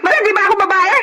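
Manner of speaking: furious confrontation. Acted. Wife furiously demanding her jealous husband answer her. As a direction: hurl the accusation back at him.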